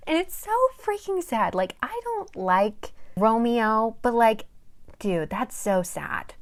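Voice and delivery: high, loud, heartfelt wail of pity; dramatic dismay. Real, not acted. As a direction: really feel how sad it is. Reacting emotionally to the plot.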